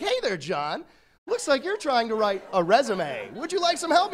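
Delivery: chirpy helper assistant voice, rising to a high bright offer; cheery pitch rising on "help"; Clippy voice. Acted. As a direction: play the eager paperclip helper. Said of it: "be like".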